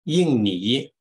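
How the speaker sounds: slow, careful teacher drill with gaps for the class; model pronunciation for repeating. Shown as a demonstration. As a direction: call out each country name for the class to echo. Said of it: "please just read after me the names".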